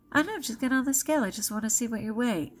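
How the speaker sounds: quick, lightly voiced insisting grandma; insistent grandmother. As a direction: brush off the objection and press on fast. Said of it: "she was insisting that I get on".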